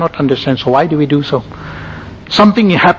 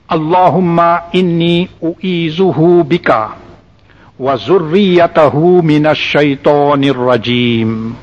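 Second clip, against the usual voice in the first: dua read out slowly, syllables drawn out; slow recitation; slower than usual. Shown as a demonstration. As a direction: recite slowly and deliberately, stretching the long vowels. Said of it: "read it to you slowly".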